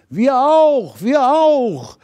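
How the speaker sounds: high, loud squeaky critter call; excited little animals calling. A narrator's reading. Hedgehog and mouse call up to the star, high and loud. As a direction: call out eagerly like tiny forest animals. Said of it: "riefen der kleine Igel und die kleine Waldmaus".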